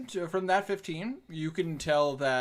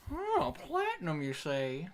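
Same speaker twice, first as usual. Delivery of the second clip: greedy shopkeeper; 6 semitones higher, 4 dB quieter, slower than usual. Acted. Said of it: "he's just like".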